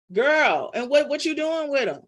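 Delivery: high, sassy comic questioning; playfully calling someone out in mock disbelief; comedian's incredulous scolding; Martin Lawrence. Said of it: "In my Martin Lawrence voice".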